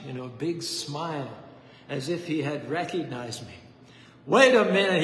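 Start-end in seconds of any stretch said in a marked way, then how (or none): 4.3-5.0 loud, higher sudden exclamation; booming. Retold or imitated. Preacher stopping the boy at the church door, booming call. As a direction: call out as recognition dawns.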